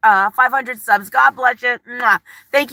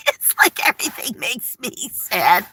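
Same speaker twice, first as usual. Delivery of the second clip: laughing; 3 dB quieter than usual. Real, not acted. Laughing at her own sadness.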